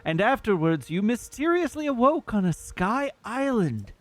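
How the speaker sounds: lightly voiced noble Zora prince; Prince Sidon voice. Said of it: "I'll just try to do his voice normally".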